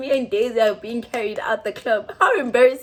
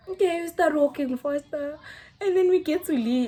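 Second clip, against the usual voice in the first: laughing; 3 semitones higher than usual. Real, not acted. Laughing through the narration.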